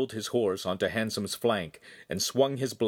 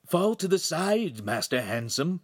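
high, stretched-out warning; mentor's urgent call; urgent cry; 7 semitones higher than usual. A narrator's reading. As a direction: cry a warning high, then drop on the name. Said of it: "Pan cried".

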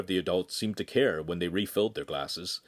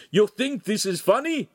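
high, loud incredulous rage; furious yell; 12 semitones higher, 5 dB louder than usual. Acted. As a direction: scream it at the laughing boy. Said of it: "the master screamed".

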